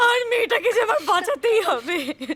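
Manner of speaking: crying, pleading tone. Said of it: "কাঁদিস না মা".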